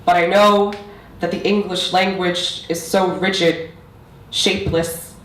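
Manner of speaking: measured, deliberate poetry recital; spoken-word poetry. Acted. Poet performing own piece on language for an audience, spoken-word recital. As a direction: recite it line by line with weighted pauses.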